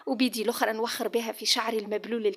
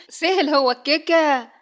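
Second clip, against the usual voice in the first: slow, louder scornful laugh; mocking laugh; 5 semitones higher, 7 dB louder, slower than usual. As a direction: laugh at her threat with contempt. Husband mocks her threat. (ضحكة استهزاء)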